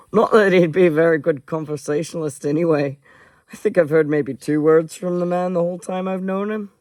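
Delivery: put-on character accent for a joking man; Connor's character accent. Connor joking about the silent Tober, in his put-on accent. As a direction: try on the character's accent, lifting the end. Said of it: "accent I was doing for Connor".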